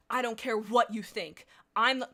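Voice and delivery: defiant leader. Acted. Reading leader's defiant line.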